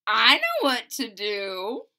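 slow, sure little voice; confident kid. Acted. Lewis telling Andrew he has a plan, confident. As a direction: announce the plan proudly.

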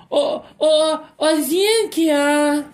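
high, playful calling of a dog; pet talk. Real, not acted. Owner calls dog Zinc over in playful pet talk. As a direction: call the dog in a sing-song pet voice. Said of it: "eu falo assim com eles".

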